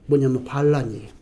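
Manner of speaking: normal talking voice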